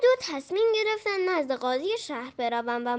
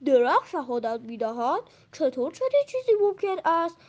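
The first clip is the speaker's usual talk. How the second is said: amazed. Acted. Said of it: "با تعجب گفت".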